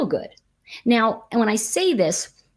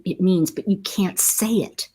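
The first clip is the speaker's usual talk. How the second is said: whispered aside; 3 dB quieter than usual. Real, not acted. Frustration about forgetting meaning.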